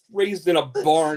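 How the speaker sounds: usual speaking voice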